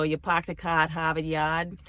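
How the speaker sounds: light Boston accent demo. Shown as a demonstration. Showing viewers a trick to get into accents, Boston accent. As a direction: starter phrase in a Boston accent. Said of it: "how to get into the Boston accent".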